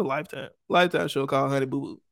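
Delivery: ordinary talk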